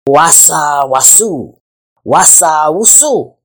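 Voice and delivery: drawn-out, swishing slither noise; slithering sound. A narrator's reading. Python passes the other animals, slithering along. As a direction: slide slowly through the sounds like a snake moving. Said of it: "who came slithering".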